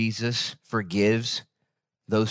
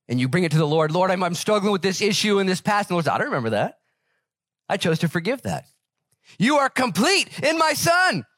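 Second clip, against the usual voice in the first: higher, fervent preacher voice lifting the verse; preaching at full force; 10 semitones higher than usual. Acted. Pastor to his congregation, fervent full-force preaching. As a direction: preach it out to the whole church.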